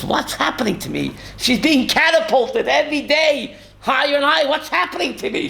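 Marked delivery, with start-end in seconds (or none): 0.0-1.1 softer, lower, amazed mother's voice; quiet wonder. Retold or imitated. Rabbi voicing the departed mother rising in heaven, hushed wonder. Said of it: "She says". 4.5-5.5 raised in pitch, rising amazement; higher wonder. Retold or imitated. Rabbi voicing the mother catapulted higher and higher, lifted wonder. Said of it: "she's saying".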